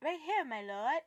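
a mock accent; playing Walder Frey's servant in a bad accent; hammed-up foreign-sounding lord's servant; terrible accent. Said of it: "pardon my terrible accent".

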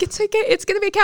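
imitating parents. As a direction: mimic parents calming her down. Parents comforting crying daughter.

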